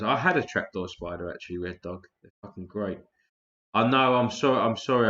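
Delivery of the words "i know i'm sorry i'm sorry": talking through a yawn. Real, not acted. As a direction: yawn while speaking. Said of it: "I'm sorry I keep yawning".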